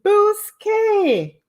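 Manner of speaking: high, loud "Booski"; imitating Miss Vern. Mimicking Miss Vern's catchphrase to viewers, high and loud. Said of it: "And Miss Vern said".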